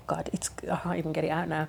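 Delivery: frustrated whisper to herself. Real, not acted. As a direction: breathe it out, voiceless. Loses thought, whispers to self.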